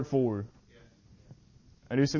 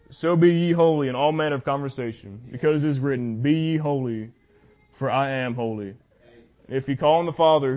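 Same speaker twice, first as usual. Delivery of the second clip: scripture reading. Acted. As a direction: read the verses with solemn weight. Reads scripture aloud.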